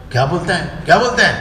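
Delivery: imitated cross demand, rising on the repeat; angry guru. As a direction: mimic an irritated elder's challenge. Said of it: "महाराज इतना गुस्सा हो गए मुझ पर".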